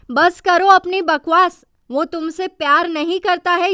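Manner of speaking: loud, cutting rebuke; furious man yelling at a woman to stop talking nonsense; angry outburst. Acted. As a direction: shut her down hard. Emre snaps at Sanem.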